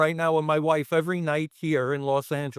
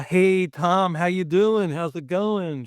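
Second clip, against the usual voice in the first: higher-pitched, acted-out welcome; hearty greeting; 3 semitones higher, slower than usual. Director welcomes Tom into the office, hearty greeting. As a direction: imitate a hearty hello at the door.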